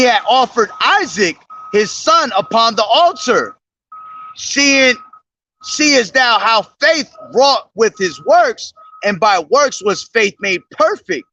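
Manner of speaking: measured, solemn Bible reading; solemn King James recitation; scripture reading. Acted. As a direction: read the verses like a preacher. Reads scripture aloud.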